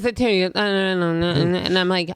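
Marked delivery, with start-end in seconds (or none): 0.5-1.6 "Uh, no, no" slurred into one mumble; mumbled non-words. Retold or imitated. Boyfriend answering her, "no, no" mumbled wordlessly. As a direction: run "no, no" together without real words. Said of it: "there wasn't a word".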